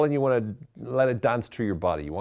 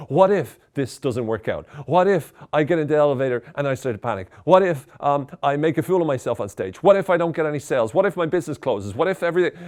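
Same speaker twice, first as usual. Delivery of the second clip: rising panic, louder and faster; anxious what-ifs; 3 semitones higher, 4 dB louder than usual. Shown as a demonstration. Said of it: "using a very stressed tone of voice".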